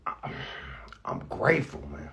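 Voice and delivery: fighting back tears, words catching; tearing up. Real, not acted. Host signing off to listeners, voice breaking with tears. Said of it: "I'm gonna tear up".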